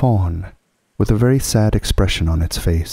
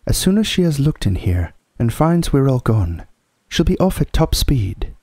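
high-pitched, lightly voiced girl warning; Susan, worried girl; 7 semitones higher than usual. Susan warning Mrs Beaver of pursuit, mildly urgent. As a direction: urge haste in a slightly girlish voice.

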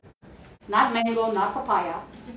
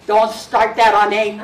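louder, laughing as he speaks; laughing aside; 3 semitones lower, 8 dB louder than usual. Real, not acted. Teasing a listener about the pregnancy joke, laughing louder. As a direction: tease through a laugh.

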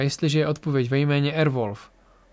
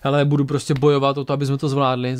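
fighter's resolve; 3 dB louder than usual. Retold or imitated. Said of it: "Tora je nastavená jako bojovnice na takový to".

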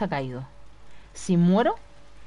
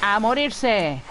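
1 furious shout; slower than usual. Real, not acted. Fighting enemies with shotgun.

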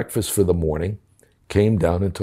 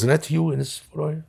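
much higher, softer, impressed question; amazed young cop; 9 semitones higher, 4 dB quieter than usual. Retold or imitated. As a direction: ask it wide-eyed like an awed young cop. Cop quoted, amazed at photos.

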